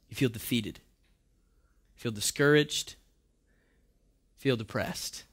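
soft, low and heavy; hushed. Acted. Preacher naming feelings of defeat, hushed. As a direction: let each feeling sink softly.

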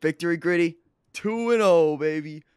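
high, loud growly victory cheer; gritty celebration voice. Pretend. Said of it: "your grittying".

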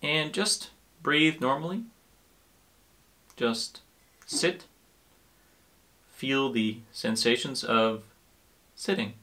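calm, unhurried guiding with long pauses; guided meditation. Acted. Teacher settling listeners into sitting and breathing, calm guided meditation. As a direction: ease the listener into stillness, leaving room to breathe.

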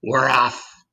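put-on triumphant call; centipede's shout. A narrator's reading. Centipede through the ceiling hole, triumphant call. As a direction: announce it with some excitement. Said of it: "and shouted".

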